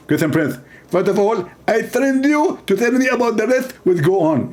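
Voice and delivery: a lightly voiced, self-satisfied preacher; mock Zakir Naik. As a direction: answer with mock certainty. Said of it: "He speak like this".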